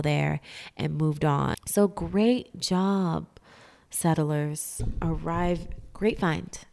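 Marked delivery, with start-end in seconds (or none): 1.6-6.6 slow, dry sarcastic praise. Acted. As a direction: fake praise, dripping sarcasm. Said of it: "That was sarcasm if you didn't know".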